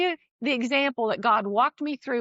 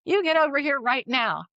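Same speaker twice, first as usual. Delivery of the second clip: stern; 4 semitones higher than usual. Retold or imitated. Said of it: "I put his middle name in".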